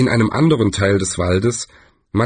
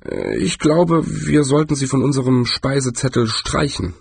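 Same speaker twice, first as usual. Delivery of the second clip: unsure mumble; 4 semitones higher than usual. Acted. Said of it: "brummte unsicher".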